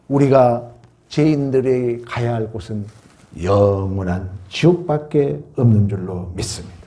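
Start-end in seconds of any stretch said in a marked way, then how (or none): none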